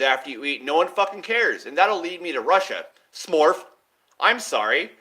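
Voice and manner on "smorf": sniff sound. Shown as a demonstration. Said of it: "That's what it sounds like when you inhale your nose".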